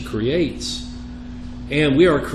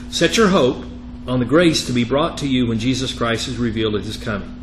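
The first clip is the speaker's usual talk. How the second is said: emphatic, measured reading of Scripture; 4 dB louder than usual. Acted. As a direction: read the verse out firmly to the class. Reads Scripture aloud.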